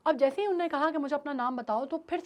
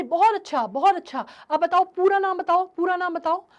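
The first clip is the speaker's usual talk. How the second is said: encouraging; 4 semitones higher, 8 dB louder than usual. Acted. Teacher encouraging stammering child.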